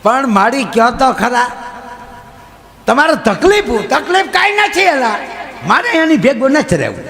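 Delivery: high, laughing granny insisting; squeaky old lady refusing; old woman telling the judge she won't stay. Retold or imitated. Old woman repeating complaint.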